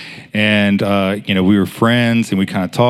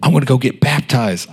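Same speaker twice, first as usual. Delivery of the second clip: higher, excited repeated name; 4 semitones higher than usual. Retold or imitated. Hostess telling coworker about her baptism, excited. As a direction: imitate a friend bursting to share news. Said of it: "she was so excited".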